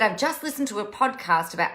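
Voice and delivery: quick, slightly put-on odd reading voice; weird voice. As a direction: read the comment out in a funny little voice. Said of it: "I don't know why I did that in a weird voice".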